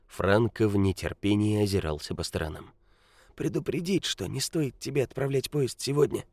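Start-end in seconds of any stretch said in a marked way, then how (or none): 3.3-6.2 put-on high, croaking old beggar; grumpy old man. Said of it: "закряхтел старик".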